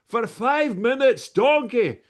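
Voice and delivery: exasperated ogre roar, high and very loud; loud, drawn-out cartoon ogre outburst; Shrek. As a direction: bellow it slowly at an annoying sidekick. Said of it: "Put a little bit of Shrek in there".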